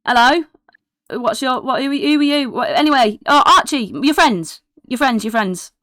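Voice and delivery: high, scattered, eager babble; excitable kid. Acted. Distracted kid demands Archie introduce her friends, high and excitable. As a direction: flit from one question to the next.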